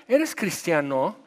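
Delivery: drawn-out, probing question; slow questioning. Retold or imitated. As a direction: ask it slowly, testing them. (pregunta lenta y sondeando)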